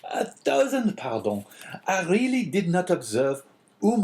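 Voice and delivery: fluster and bow in a high voice; hasty innkeeper apology. A narrator's reading. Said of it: "Caderousse hastily exclaimed".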